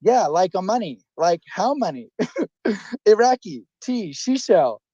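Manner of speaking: reading like a robot, deadpan. Shown as a demonstration. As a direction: read it out like a robot. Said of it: "I'll just read it like a robot".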